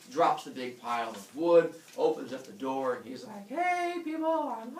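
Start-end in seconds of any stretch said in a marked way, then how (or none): 3.5-4.8 high, sing-song holler; cheery homecoming call. Retold or imitated. Heracles opening the door to his family, high cheery holler. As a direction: call out to the household, comically high. Calling out on arriving home.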